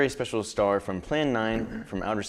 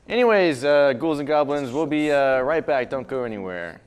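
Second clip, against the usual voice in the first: loud horror host; 3 semitones higher, 4 dB louder than usual. Acted. Host loudly wraps segment.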